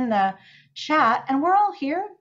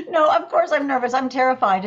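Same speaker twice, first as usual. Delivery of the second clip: laughing admission; 3 semitones higher, 4 dB louder than usual. Real, not acted. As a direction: still laughing through the words. Admits nerves after laughing.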